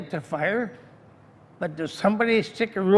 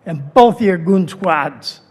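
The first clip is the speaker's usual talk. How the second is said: angry; 2 semitones lower, 6 dB louder than usual. Real, not acted. Angry resident addressing council member.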